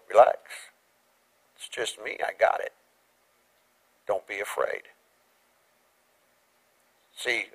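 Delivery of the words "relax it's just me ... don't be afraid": reassuring God. Retold or imitated. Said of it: "hear God go".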